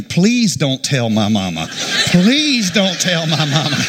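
slow, drawn-out mock plea; inward scream. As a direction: beg with a held-in scream, stretching the first word. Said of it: "I'm screaming".

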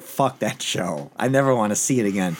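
mock fed-up groan at the show; fed-up quote. Host recalling his own disgust at the finale, mild mock disgust. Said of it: "it was just like".

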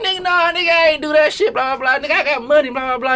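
very high-pitched mocking impersonation; Tweezy. Friend retelling a denial of selling the bottle, high put-on voice. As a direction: squeal out the protest way up high. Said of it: "is that your Tweezy voice?".

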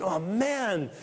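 mildly frustrated sigh of wishing; frustrated longing. Acted. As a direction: lightly act out a wistful, fed-up groan. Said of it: "maybe hear him in his frustration".

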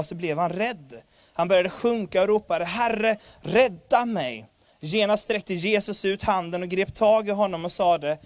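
a lifted, earnest Bible reading; scripture reading. Acted. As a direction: read the gospel passage out to the congregation. Reads Matthew 14 aloud. (högtidlig bibelläsning)

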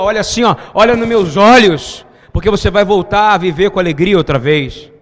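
loud, pounding preacher's call; full-voiced sermon climax; fiery preaching. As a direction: preach it out to the crowd.

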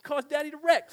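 retold crying. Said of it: "And I'm crying".

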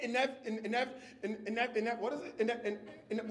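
stumbling over "inev-", restarting the broken-off first syllables; struggling to pronounce. Acted. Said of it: "Some things are just hard to say".

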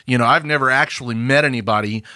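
mock smug Hollywood reasoning; breezily dismissive, imitating lazy filmmakers; Hollywood condescension. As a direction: parody a condescending know-it-all, lightly. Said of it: "that's Hollywood condescension".

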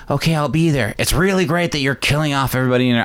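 Latina impression slipping into Quebecois; quick, Quebecois-tinged imitation; accidental Quebecois accent. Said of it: "why I'm going Quebecois".

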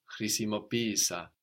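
χρησιμοποίησα with pí stressed before a separate i; accent the first ee in χρησιμοποίησα. Shown as a demonstration. Teacher explaining the accent rule, χρησιμοποίησα stressed on pí. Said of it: "the first one takes the accent".

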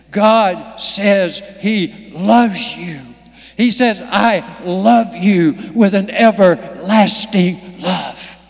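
slow, tender preaching over music. Real, not acted. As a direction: say it slowly and lovingly.

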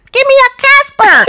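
high, loud playful dog voice. Pretend. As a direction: bark it out like an eager dog. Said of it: "That was my dog voice".

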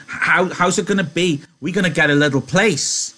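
high, loud, stammering eagerness; excited Lennie. A narrator's reading. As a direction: recite a beloved dream with childlike excitement. Lenny excitedly prompts the dream.

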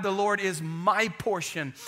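"my" leaned on before "portion"; stress on MY. Shown as a demonstration. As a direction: make "my" the word that counts. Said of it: "the emphasis on the word "my".

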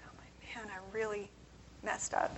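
hushed mock self-reproach, barely audible; whispered regret. Retelling realising the missed event's value, whispered dismay. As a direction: whisper it to yourself as a retold realisation.

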